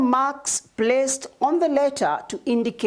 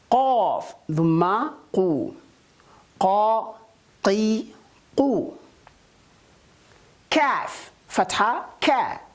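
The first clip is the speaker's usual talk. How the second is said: syllable drill. Shown as a demonstration. Teacher drilling pupils on short vowels, careful and deliberate. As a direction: sound out every syllable for the class.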